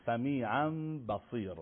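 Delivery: سمیعاً بصیر with the lips meeting lightly; iqlab demo. Shown as a demonstration. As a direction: say سمیعاً بصیر without lip pressure.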